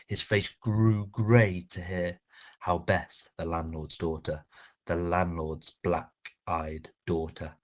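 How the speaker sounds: slow, hushed, dramatic recitation; dramatic poem reading. Shown as a demonstration. Teacher reads a poem aloud to her class, slow and dramatic. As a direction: read the poem slowly, savouring each word.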